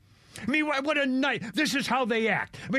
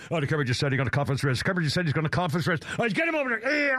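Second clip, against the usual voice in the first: much lower and fast, a hammed-up agent ratting him out; mock FBI agent; 5 semitones lower, faster than usual. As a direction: rattle it off low like a snitching FBI agent. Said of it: "an F B I agent right now saying".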